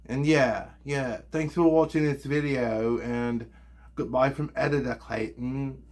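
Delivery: weird put-on English-style accent. Shown as a demonstration. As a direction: keep up an odd fake English accent. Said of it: "I'm talking with this weird accent".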